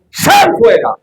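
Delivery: very high, loud command; Jesus ordering the dead man out, shouting; piercing shout. Acted. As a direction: cry out the command at full force. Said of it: "clamó a gran voz".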